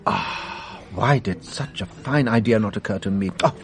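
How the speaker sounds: dry, breathy mock self-reproach; ironic self-mockery. Detective mocking a colleague's obvious suggestion, in dry ironic self-reproach. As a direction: pretend to scold yourself, tongue in cheek. Sarcastic reply to the advertising idea.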